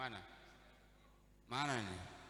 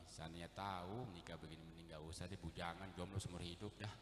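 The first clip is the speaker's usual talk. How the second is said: husband's complaint; 8 semitones lower, 7 dB quieter than usual. Retold or imitated. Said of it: "Kata ya suami ini".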